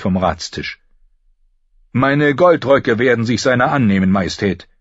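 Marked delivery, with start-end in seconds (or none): 1.9-4.7 slightly higher, louder eager official; Janos Slynt. A narrator's reading. Janos Slynt volunteering his gold cloaks, eager. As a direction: offer it eagerly to the king.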